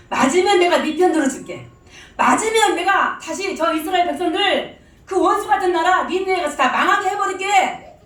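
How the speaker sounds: loud, high, rising mock divine offer; God tempting Jonah with a grand promise; voicing God. Preacher voicing God's question to Jonah, loud and high. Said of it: "이렇게 말하려고 하나님이 물어보셨어요".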